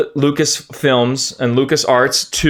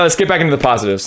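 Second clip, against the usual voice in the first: hurried self-reminder; much faster than usual. Real, not acted. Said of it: "All right, all right".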